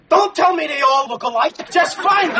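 agitated, pitch climbing to high; exasperated. Acted. Husband phoning to find his father-in-law, exasperated. Frantic on the phone to lodge.

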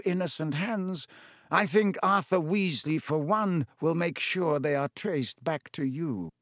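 lightly voiced Dumbledore.

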